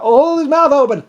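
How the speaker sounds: sharp high yelled order; mock shout. Cruel boss orders his men, high mock shout. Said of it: "he'll be like".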